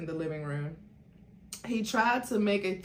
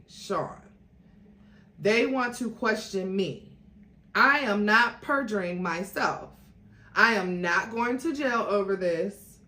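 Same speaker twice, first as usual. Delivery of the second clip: defiant; 2 semitones higher, 4 dB louder than usual. Acted. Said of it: "Jennifer spoke defiantly".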